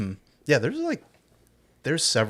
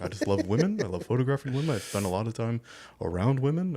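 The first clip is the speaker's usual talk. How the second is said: Brian De Palma voice. Retold or imitated. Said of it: "I'm hitting the lisp a little too hard".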